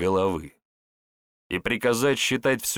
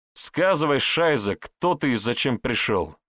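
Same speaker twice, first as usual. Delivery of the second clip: stern demand; 5 semitones higher, 3 dB louder than usual. Acted. Andrey interrogates at knifepoint.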